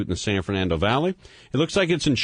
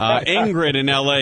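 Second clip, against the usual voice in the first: laughing; 5 semitones higher, 4 dB louder than usual. Real, not acted. Host laughs into next caller.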